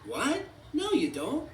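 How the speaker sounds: high, mock-screamed protest; screaming. A narrator's reading. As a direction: cry out in a high toy voice. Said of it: "Forky screamed".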